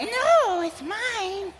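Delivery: put-on very high, very soft little-kid voice; little brother. Little brother refusing, tiny high voice. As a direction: squeak out the refusal. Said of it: "he's like".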